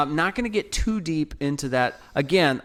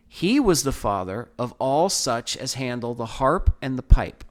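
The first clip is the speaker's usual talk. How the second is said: scripture reading. Acted. Podcast host reading Genesis to listeners, measured and solemn. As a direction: read the verses out with weight. Reads scripture passage aloud.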